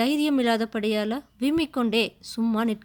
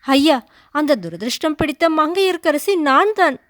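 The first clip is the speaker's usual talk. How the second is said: between sobs; 4 semitones higher, 7 dB louder than usual. A narrator's reading. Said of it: "மங்கையர்க்கரசி விம்மலுக்கிடையில".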